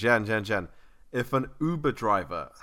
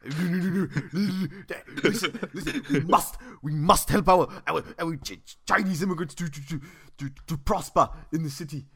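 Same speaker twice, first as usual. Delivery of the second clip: higher, rambling posh-politician voice, laughing in places; Boris Johnson impression; 4 semitones higher, 3 dB louder, faster than usual. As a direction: play a stumbling politician giving a speech. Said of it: "Do you learn that from Boris?".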